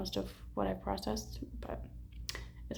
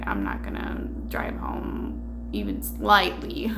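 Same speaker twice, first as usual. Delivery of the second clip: laughing; slower than usual. Retold or imitated. Quoting herself, laughing.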